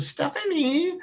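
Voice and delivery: high, soft sing-song name call; mom's calling voice. Retold or imitated. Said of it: "then I did her mom's voice".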